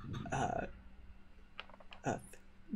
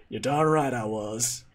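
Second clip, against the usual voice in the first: Texan drawl, laughing; slower than usual. Acted. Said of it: "speaks with a Texan accent".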